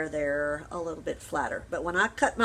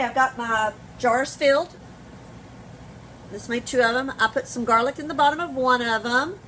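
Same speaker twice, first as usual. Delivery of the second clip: louder, projecting teacher voice; 3 semitones higher, 4 dB louder than usual. Real, not acted. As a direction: project over the kitchen noise. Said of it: "use my teacher voice".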